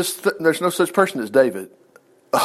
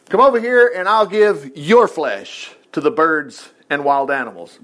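slow, drawn-out menacing proclamation; Goliath's yelled threat; slower than usual. Acted. Goliath threatening young David, slow mock yell dropping away at the end. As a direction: stretch the threat out word by word. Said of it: "Goliath yelled".

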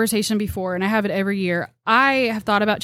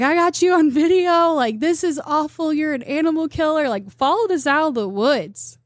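mock angry accuser; 7 semitones higher than usual. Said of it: "She's like".

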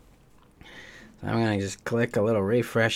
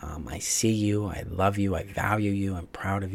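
loving inner parent; 4 dB quieter than usual. Retold or imitated. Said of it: "this programmed voice is like".

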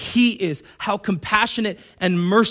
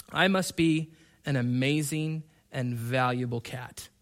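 smug cat; 4 semitones lower, 5 dB quieter than usual. Acted. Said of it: "here's what the cat thinks".

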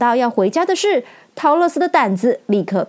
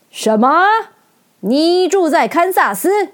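大王惊讶地扬声追问; 威严大王吃惊地打断女孩; 惊讶打断; 7 semitones higher, 3 dB louder than usual. A narrator's reading. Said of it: "突然打断桃乐丝的话". (惊讶地追问)

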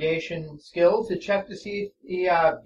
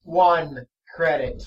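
flat monotone voice; 4 dB louder, slower than usual. Acted. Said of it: "same flat monotone voice over and over".

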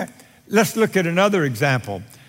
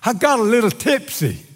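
pitched-up, minimizing admission; man excusing himself; 5 semitones higher than usual. Acted. Man looks up to God about drinking, excusing himself. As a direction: shrug off the fault in a higher voice. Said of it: "Man looks up and says".

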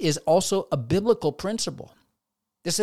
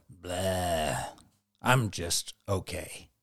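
mock listless blah; 8 semitones lower, 6 dB quieter, much slower than usual. The case of the blahs.

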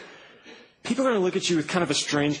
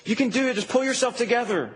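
doting grandma; 5 semitones higher than usual. Acted. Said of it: "He's not like your grandma".

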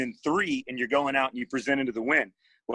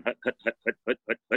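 evenly repeated imitated army hut; mock army jump-school count, not shouted; marching chant; 3 semitones lower, faster than usual. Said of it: "you'd still be going".

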